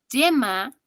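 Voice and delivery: yema drawn out, y sounded like ll; yema, slow, with a double-L onset; consonant Y. Shown as a demonstration. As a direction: model yema with a clear consonant ll at the start. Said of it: "suena como doble L".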